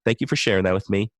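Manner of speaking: mildly polite, receptive reply. Shown as a demonstration. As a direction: demonstrate a courteous thank-you. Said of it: "you can politely say".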